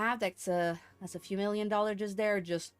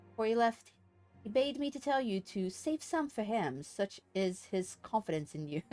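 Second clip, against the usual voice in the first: formal briefing read aloud; 2 semitones lower, 4 dB quieter than usual. Acted. Streamer reads a mission briefing to the player, formal storytelling. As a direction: deliver a formal quest briefing, subdued.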